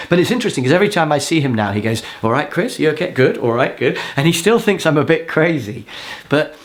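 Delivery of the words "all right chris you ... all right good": wary greeting. Retold or imitated. Mimicking the wary man greeting him now.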